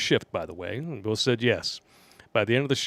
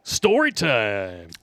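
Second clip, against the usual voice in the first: slow announcement; much slower than usual. Acted. Announcing segment.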